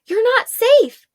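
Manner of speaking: loud, high, slowed warning; slow and loud, drive the warning home; urgent shout. Acted. Arella warning the clinging girl, loud and slow.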